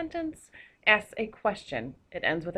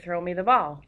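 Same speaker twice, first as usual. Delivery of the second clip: commanding; 5 dB louder than usual. Shown as a demonstration. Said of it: "how you're going to say it".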